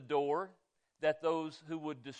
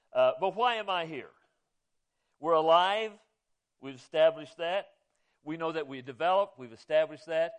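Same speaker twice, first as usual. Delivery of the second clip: much louder, driving each point home; forceful preaching; 5 dB louder than usual. Real, not acted. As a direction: hammer the points out to the congregation. Preacher builds his point loudly.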